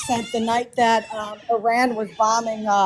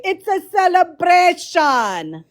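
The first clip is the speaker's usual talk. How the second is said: put-on slow, drawn-out Arab accent; 3 semitones higher, slower than usual. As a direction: imitate it in a thick Arab accent. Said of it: "your Arab accent like when you say".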